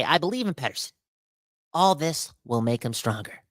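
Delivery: milk the comment like it moved you; a hammed-up choked-up reading; mock emotional reading. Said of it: "I'm getting emotional right now".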